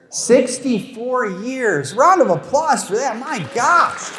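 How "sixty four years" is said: "Sixty-four years" drawn out slowly in awe; amazed. Real, not acted. Comic reacting to an old couple in the audience, slow and amazed.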